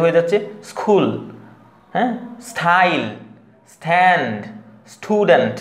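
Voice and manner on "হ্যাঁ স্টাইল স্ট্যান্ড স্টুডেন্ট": স্টাইল with t like ঠ; overdone puff after s; wrong aspirated st. Shown as a demonstration. Teacher mocking the incorrect aspirated t. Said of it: "না, এরকম একদমই হবে না".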